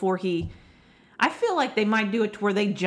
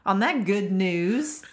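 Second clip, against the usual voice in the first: laughing; slower than usual. Real, not acted. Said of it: "as bad as you started".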